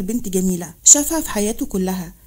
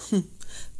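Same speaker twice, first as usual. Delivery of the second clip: soft chuckle; 2 semitones lower, 9 dB quieter than usual. Acted. General amused by officer's answer.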